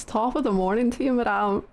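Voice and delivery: quick, lightly Irish greeting; Irish greeting to a lady; attempted Irish accent. Streamer practising an Irish accent.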